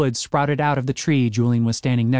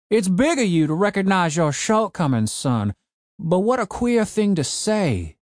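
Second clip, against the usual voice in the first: put-on cranky old man; 6 semitones higher than usual. A narrator's reading. Old man ordering his broken zombie gardener, gruff old voice.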